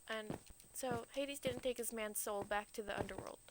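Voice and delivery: unvoiced hushed narration; whispered line. Real, not acted. Telling the myth ending in a whisper. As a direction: breathe it out in a whisper. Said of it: "whispered narration".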